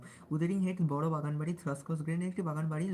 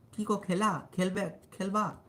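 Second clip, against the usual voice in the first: East Bengal accent, raised and drawn out; Bangal accent; 3 semitones higher, 4 dB louder, slower than usual. Shown as a demonstration. Streamer showing how Bangladeshi friends talk, Bangal accent. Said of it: "পুরো বাঙালদের মতো কথা বলি".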